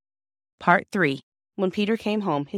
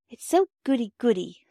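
higher-pitched reluctant objection; doubtful; 6 semitones higher, 4 dB louder than usual. A narrator's reading. Phyllis objects to saying sorry, doubtful. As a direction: balk at it with mild doubt. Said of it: "said Phyllis doubtfully".

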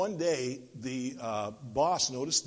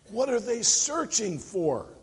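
alarmed, frustrated higher question; a little angry; 5 semitones higher than usual. Acted. Confused boss questioning the child, mildly angry. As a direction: stretch it out with mild exasperation. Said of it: "even a little angry, the boss asked".

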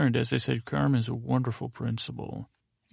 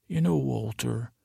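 Mike. Retold or imitated. Podcaster savouring how Mike addresses Walt, lightly imitated. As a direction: lightly put on his way of saying Walter. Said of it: "how he says it".

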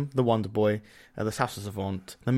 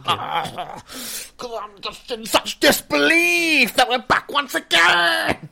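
laughing; 13 semitones higher, 5 dB louder, much slower than usual. Real, not acted. Laughing disbelief at being back.

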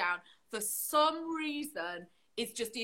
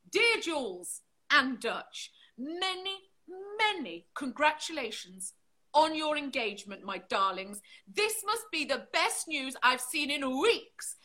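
measured, expressive card reading; letter read aloud. Acted. Reading an engagement card to the co-host, expressive read-aloud.

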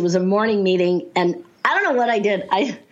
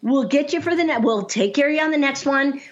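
higher-pitched, teasing reassurance; retold playful consoling; 5 semitones higher than usual. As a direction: console a client in a lifted voice. Coach consoling client after failure.

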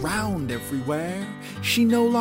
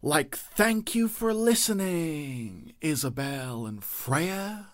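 sleepy pup voice; 4 dB quieter than usual. Acted.

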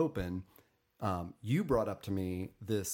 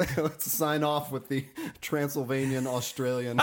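laughing; 4 semitones higher, 4 dB louder than usual. Real, not acted. Joking sign-off, laughing.

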